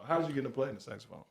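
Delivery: host repeating it so the people hear. Shown as a demonstration. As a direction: toss the question off quickly. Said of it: "I want the people to know".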